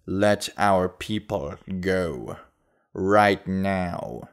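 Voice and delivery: put-on slow, firm southern accent demand; heavy southern accent. A narrator's reading. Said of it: "With a heavy southern accent".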